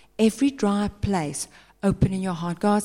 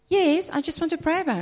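hesitant member; 8 semitones higher, much faster than usual. Retold or imitated.

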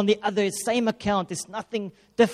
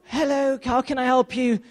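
high, sing-song "Hello, how can I help you?"; a hint of a chirpy telephone agent; mock cheerful agent; 5 semitones higher than usual. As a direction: lightly put on call-centre greeting.

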